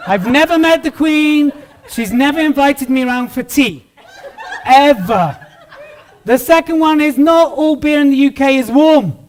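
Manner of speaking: chuckling through the jokes; joking with a laugh in his voice. Real, not acted. Joking myths to audience.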